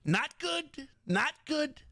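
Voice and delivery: high squeaky cartoon mouse; Mickey Mouse voice. Streamer doing Mickey to open the stream, high squeaky cartoon mouse.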